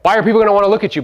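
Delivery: ordinary delivery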